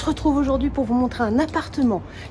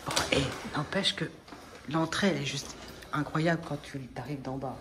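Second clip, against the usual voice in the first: library whisper; 7 semitones lower, 9 dB quieter than usual. Real, not acted. Parle bas la nuit.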